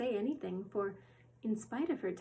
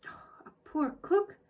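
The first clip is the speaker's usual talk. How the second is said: interrupting query; 7 semitones higher, 4 dB louder than usual. Acted. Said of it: "inquired Missus Corey, interrupting".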